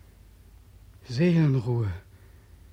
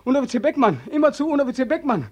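roaring chorus; 6 semitones higher, faster than usual. Acted. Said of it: "brüllen Sie".

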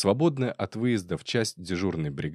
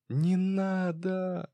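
very high, very slow sobbing wail; a drunk woman sobbing at two men about to duel; drunken sobbing; 12 semitones higher, much slower than usual. A narrator's reading. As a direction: beg them to stop through drunken tears. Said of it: "зарыдала пьяными слезами Катерина".

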